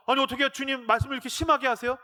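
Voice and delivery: high-pitched, mock-indignant complaint; hurt protest. Peter objecting to Jesus' harsh words, high indignant protest. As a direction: protest as if unfairly insulted.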